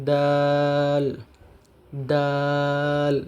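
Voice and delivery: দাল said slow and drawn out, Arabic dal sound; Arabic letter pronunciation. Shown as a demonstration. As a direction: stretch দাল like a Quran recitation. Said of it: "teacher demonstrates letter". (আরবি উচ্চারণে টেনে দাল)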